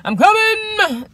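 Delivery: drawn-out, slow, put-on voice; imitating a slow drawn-out answer; slow lazy reply. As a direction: stretch it out like you can't be bothered. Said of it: "he's like".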